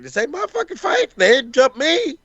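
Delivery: lightly voiced dismissive wrestler; high mock voice. Voicing Shida's indifference.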